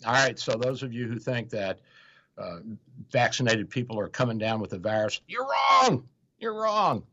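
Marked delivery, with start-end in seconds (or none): 5.3-7.0 high, loud declaration; emphatic you're wrong. Real, not acted. Telling listeners who doubt vaccines, loud and high.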